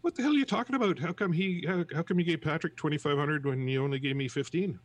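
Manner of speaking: high, loud incensed yell; incensed outburst. Retold or imitated. Angry worker yelling at the unemployment clerk, incensed shout. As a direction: storm back in and demand an answer. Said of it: "John is incensed".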